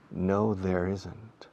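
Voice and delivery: very slow "No, there isn't"; patient teacher demo; slow model answer. Shown as a demonstration. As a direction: draw the answer out. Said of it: "slow model answer".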